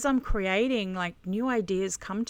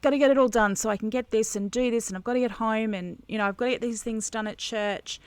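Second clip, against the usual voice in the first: quick, run-on inner monologue; rushed to-do list; faster than usual. Retold or imitated. Busy churchgoer listing chores to herself, rushed. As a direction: rattle off the chores as if hurried.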